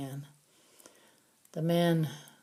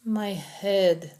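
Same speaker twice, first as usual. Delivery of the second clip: groaning; 4 semitones higher than usual. Acted. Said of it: "the man groaned".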